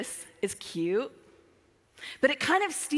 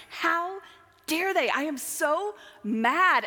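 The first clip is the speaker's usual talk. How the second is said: retold rant; 5 semitones higher, slower than usual. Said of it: "on this rant".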